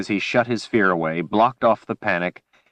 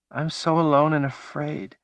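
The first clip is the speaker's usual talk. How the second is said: desperate wail; 8 semitones higher than usual. Acted. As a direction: cry it out from somewhere far away. Woman lost in vision, repeating.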